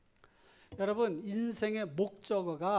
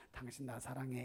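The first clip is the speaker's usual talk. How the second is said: soft and tender, a little quieter; softly; 6 semitones lower, 11 dB quieter than usual. Shown as a demonstration. Pastor shows couples how to ask softly and tenderly. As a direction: ask it gently, like a loving spouse. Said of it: "이렇게 좀 부드럽게 얘기를 해보세요".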